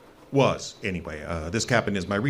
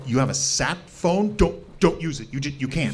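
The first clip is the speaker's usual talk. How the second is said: panicked plea; 6 semitones higher than usual. Acted. Hermit panics about sat phone.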